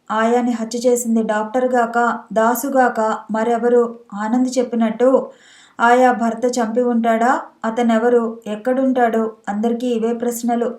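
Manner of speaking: ordinary delivery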